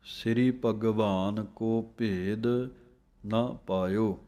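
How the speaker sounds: "ਸ੍ਰੀ ਭਗਵਾਨ ਕੋ ਭੇਦ", a pause, then "ਨਾ ਪਾਇਓ"; pause before ਨਾ ਪਾਇਓ. Shown as a demonstration. Teacher showing students to separate ਨਾ ਪਾਇਓ. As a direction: set ਨਾ ਪਾਇਓ apart with a break. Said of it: "ਇਸ ਤਰ੍ਹਾਂ ਨਖੇੜ ਕੇ ਬੋਲਣਾ ਹੈ".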